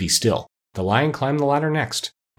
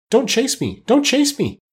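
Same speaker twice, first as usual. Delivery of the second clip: high-pitched plea in a small, scared voice; tiny frightened princess, much higher; frightened little voice; 13 semitones higher than usual. A narrator's reading. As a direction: cry out in alarm, pitch climbing on the repeat. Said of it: "such a frightened little voice".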